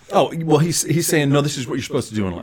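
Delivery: giggling through the advice; laughing brother. Retold or imitated. Brother laughing while giving life advice. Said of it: "He starts dying laughing".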